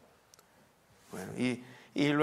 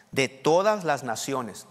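"todas" leaned on, louder and slow; stress on TODAS; 4 dB louder, slower than usual. Real, not acted. Preacher reading the verse to the congregation, stress on "todas". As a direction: stretch and punch the word "todas".

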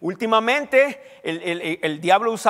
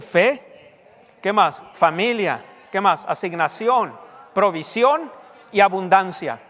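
rapid recap; slower than usual. Shown as a demonstration. Preacher has congregation repeat the list, rapid recap. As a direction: fire the list off briskly, prompting for each word. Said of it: "¿me lo pueden repetir rápidamente?".

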